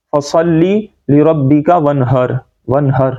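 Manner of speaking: light h and short vowel in "ون ہر". Shown as a demonstration. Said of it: "ہم کیا پڑھتے ہیں".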